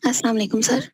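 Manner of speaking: sore throat, rough and hoarse. Real, not acted. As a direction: speak through a scratchy sore throat. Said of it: "मेरा गला खराब है".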